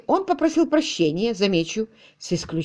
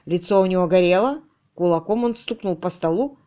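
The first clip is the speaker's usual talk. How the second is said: normal talking voice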